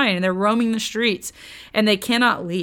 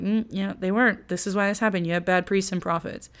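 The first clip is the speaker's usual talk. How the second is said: blithe; 5 dB quieter than usual. Retold or imitated. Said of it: "very blithely is like".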